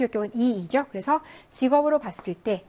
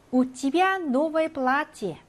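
slow reading; 3 semitones higher, much slower than usual. Shown as a demonstration. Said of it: "teacher reads Russian example slowly".

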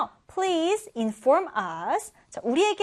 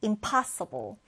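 "impossible" with the stress on POS; im-POS-sible, falling at the end; second-syllable stress; 4 semitones lower, 4 dB quieter, much slower than usual. Shown as a demonstration. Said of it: "두 번째 음절에 강세를 두고요".

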